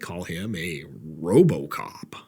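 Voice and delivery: whispered punchline. Pretend. Salesman whispering the RoboCop pitch to the sheriff. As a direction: lean in and whisper the reveal.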